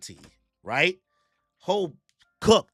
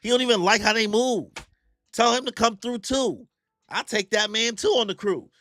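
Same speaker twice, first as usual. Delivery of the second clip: much higher and louder, boasting; hyped pirate boss; 10 semitones higher, 4 dB louder than usual. Acted. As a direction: sell the recruiting pitch with big swagger. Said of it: "He said".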